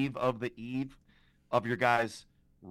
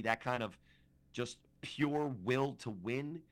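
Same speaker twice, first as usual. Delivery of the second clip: Bruce Buffer announcer. Pretend. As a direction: hype it like introducing a title fight. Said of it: "Good announcer voice, guys?".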